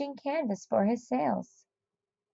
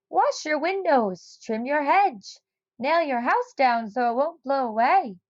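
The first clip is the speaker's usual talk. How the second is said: put-on higher, grumbling old man; old neighbour scolding; 5 semitones higher than usual. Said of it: "he told Sam".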